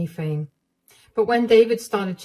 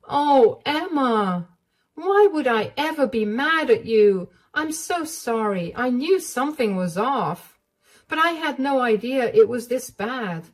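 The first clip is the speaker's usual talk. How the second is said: put-on higher, concerned older woman's voice; higher, gently alarmed motherly voice; caring mother-in-law; 6 semitones higher than usual. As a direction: comfort her like a worried mom.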